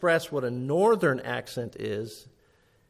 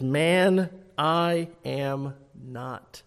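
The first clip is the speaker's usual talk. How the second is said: flat, curt; much slower than usual. Acted. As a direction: deny it flatly, each word set apart. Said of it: "responds very flatly, very curtly".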